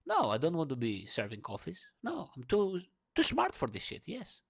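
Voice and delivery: excited defiance. Real, not acted. Proud defiance of the teacher.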